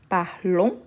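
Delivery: "Parlons" ending on a nasal vowel, no S; silent final S. Shown as a demonstration. Teacher showing the nous form, "Parlons" with silent S. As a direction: say "Parlons" without sounding the S. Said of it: "je ne prononce pas le S".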